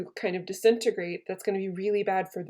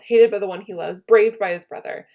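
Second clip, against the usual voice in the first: louder, declaiming Cassius's wounded pride; hammed-up outburst of a wronged friend; dramatic reading; 10 dB louder than usual. Teacher reading Cassius's hurt lines to the class, loud and dramatic. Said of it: "we're getting real dramatic here".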